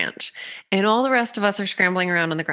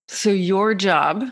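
whisper; slower than usual. Real, not acted. Telling the projector her job, slow whisper. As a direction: lean in and breathe it slowly. Intimate advice.

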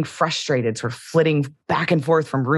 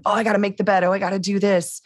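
hammed-up panicked to-do list; frantic inner voice; 5 semitones higher, much faster than usual. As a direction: rattle it off like you're darting room to room. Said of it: "Frantically moving about".

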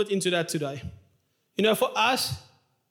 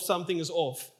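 something is off repeated, softer and falling; softer echo; 3 semitones lower, 5 dB quieter than usual. Shown as a demonstration. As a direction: let the echo drop away. Rhetorical echo of a phrase.

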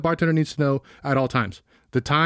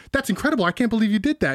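amazed; 6 semitones higher than usual. Retold or imitated. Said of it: "And he goes".

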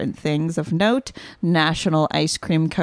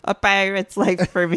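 pirate voice. Shown as a demonstration. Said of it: "There she goes".

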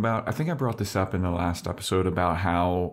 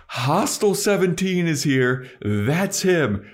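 louder call to the whole party; calling out to a room; 6 semitones higher, 3 dB louder, slower than usual. Retold or imitated. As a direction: call out to get everyone's attention.

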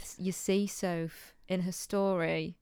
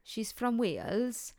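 slow, sing-song Welsh accent; attempted Welsh accent; 2 semitones higher, 4 dB quieter, slower than usual. Shown as a demonstration. Host asked to do a Welsh accent, slow Welsh lilt. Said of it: "do the rest in, in a Welsh accent".

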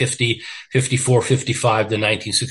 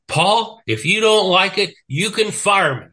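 higher, louder defiant shot back at the boss; retold angry comeback; 8 semitones higher, 3 dB louder than usual. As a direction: throw it back at him, fed up and daring. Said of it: "and I got pissed".

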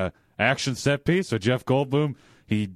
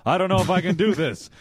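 lightly put-on British accent, higher; hammed-up Cockney twang as Jeff Goldblum; mock Cockney Goldblum; 7 semitones higher than usual. Pitching a scene, a light British accent. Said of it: "He's like".

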